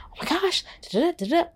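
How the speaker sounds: high-pitched mock panic, rattled off; playful high squeal of panic; mock freaking out. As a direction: imitate someone losing it over a shoe. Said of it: "you're gonna be freaking out".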